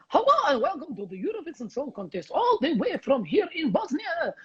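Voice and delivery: imitating a Slavic contest host; mock Slavic accent. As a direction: greet the crowd as a cheesy Bosnian presenter. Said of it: "I came on and I was like".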